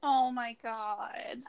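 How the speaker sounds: breathless whisper, slow; whispered shock. Real, not acted. Podcast cohost hears about cheating, whispered slow shock. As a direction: barely voice it, stunned. Listener reacting to the cheating story.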